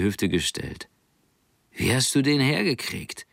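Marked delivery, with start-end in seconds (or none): 1.7-3.3 etwas höher, langsam und spöttisch; skeptisches Mädchen Tessa. Acted. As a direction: ein Mädchen, das ihn herausfordert. Tessa staunt. (Tessa stellt Nanning skeptisch zur Rede, leicht gespielt)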